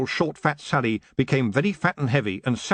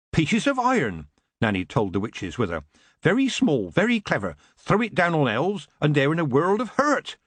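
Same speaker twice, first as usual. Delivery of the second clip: put-on higher, knowing old witch explaining; Nanny Ogg, gleeful; 4 semitones higher than usual. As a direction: relish the nasty trick to the witches.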